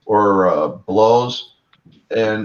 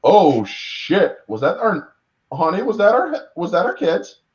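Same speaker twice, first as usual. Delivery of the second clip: mock panicked monster dad; 9 semitones higher than usual.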